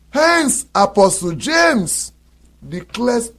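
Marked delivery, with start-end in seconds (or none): none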